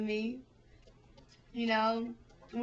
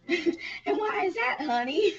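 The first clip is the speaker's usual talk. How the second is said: hammed-up old man, slow and pitched up; old husband; 7 semitones higher, 5 dB louder, slower than usual. Old husband asking his wife why, slow hammed-up drawl. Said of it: "And the man could have said".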